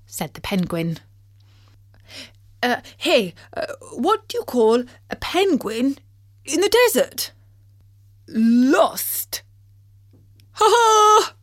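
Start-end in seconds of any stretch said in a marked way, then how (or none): 2.6-7.3 rising eager frog. Acted. Bertie frog voice. 8.3-11.3 much higher, louder cackling shout; laughing shout. Acted. Punchline, laughing.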